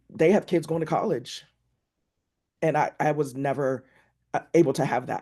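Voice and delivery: choked-up voice catching with emotion. Sharing their story in this space, the speaker is getting emotional. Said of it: "sorry, still get emotional about it".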